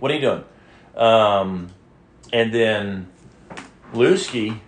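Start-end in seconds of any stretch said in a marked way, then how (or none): 0.0-0.4 mild, higher-pitched scolding question; mock yelling at dog. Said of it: "always been yelling at her".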